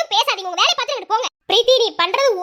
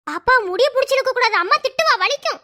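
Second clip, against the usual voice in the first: lightly voiced child; 3 semitones higher than usual. Father voicing child's words.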